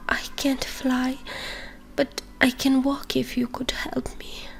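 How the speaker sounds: weak whispered bird voice; hurt little dove, muffled. Acted. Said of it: "with a muffled voice".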